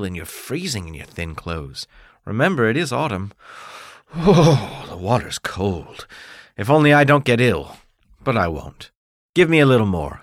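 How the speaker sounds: a hint of a cold, grateful mother; relieved mother. Mother sipping drink and fussing over her son, tender.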